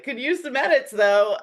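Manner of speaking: high, loud mock singsong of the email; mocking the client's curt email, teasingly; mock sing-song quote. Staff turning the email into an inside joke, mock singsong. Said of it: "we started laughing, like".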